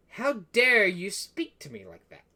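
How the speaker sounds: slow, emphatic royal rebuke; indignant king. Acted. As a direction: draw out the outrage like an offended king. Offended king rebukes the adventurer.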